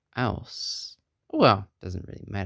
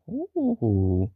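imitated ooh; 2 semitones higher than usual. Character reacts to hitting gong.

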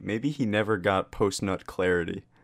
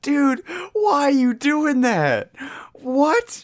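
high disbelief; 7 dB louder, slower than usual. Real, not acted. Shocked at the detail.

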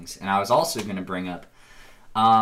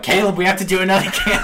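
higher, fast laughing plea; laughing mock plea; 8 semitones higher, 4 dB louder, faster than usual. Imitating friend begging to play another game, laughing. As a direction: beg through laughter. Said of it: "you'll call me back and be like".

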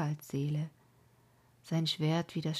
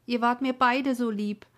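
"beide" cried out louder in grief; anguished cry; 6 semitones higher, 8 dB louder than usual. Acted. Maiden cries out over her two dead, anguished. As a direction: wail the line out to the dead.

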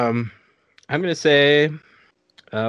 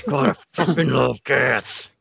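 Matthew McConaughey; slower than usual. Retold or imitated. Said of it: "He's, like, really passionate about it".

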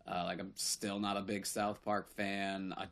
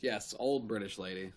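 put-on old British lady voice; 2 semitones lower than usual. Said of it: "No, just like that".

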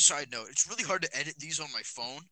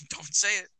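playful teasing lunch lady; 5 semitones higher, 6 dB louder than usual. Retold or imitated. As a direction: tease him, half laughing. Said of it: "She's like".

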